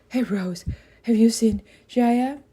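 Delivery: put-on eager boy calling out; a boy searching, loud and high; young boy voice. A narrator's reading. Jed voiced by narrator.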